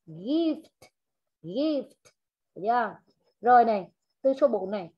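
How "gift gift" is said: GIFT with audible F and T at the end; clear final sounds. Shown as a demonstration. Teacher models endings for student, GIFT with released final FT. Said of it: "là phải có âm đuôi".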